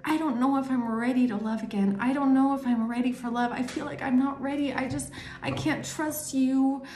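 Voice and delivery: mildly mopey, hesitant voice; acted unhappiness. How they think you should be, lightly acted misery. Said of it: "You should be unhappy".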